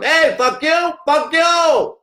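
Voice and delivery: high, loud squawking parrot shout. Retold or imitated. A parrot next to the old man swears at them, high squawking shout. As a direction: screech it like a cussing bird. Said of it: "the one over in the corner that's going".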